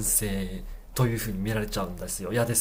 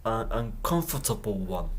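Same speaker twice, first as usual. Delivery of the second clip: slow repeat; much slower than usual. Shown as a demonstration. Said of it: "slow repeat".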